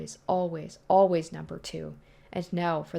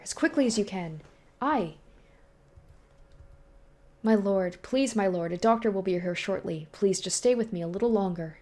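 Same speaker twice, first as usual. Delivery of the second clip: alarmed servant; 3 semitones higher than usual. Acted. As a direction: rush in fearing for your master. Servant voice held.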